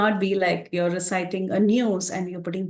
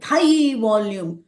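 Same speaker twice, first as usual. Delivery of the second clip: raised volume demo; 2 semitones higher, 4 dB louder, slower than usual. Shown as a demonstration. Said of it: "One should not shout".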